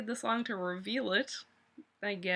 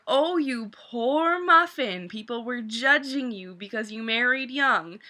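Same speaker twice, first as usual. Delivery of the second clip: mock sympathy.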